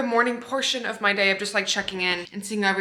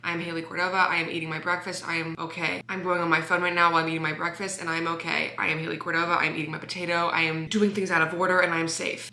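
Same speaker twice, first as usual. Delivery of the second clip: low, steady reciting of a calming mantra; low, soft mantra to herself; self-soothing mantra; 4 semitones lower, 3 dB quieter than usual. Shown as a demonstration. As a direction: recite it to calm yourself. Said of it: "say my mantras of".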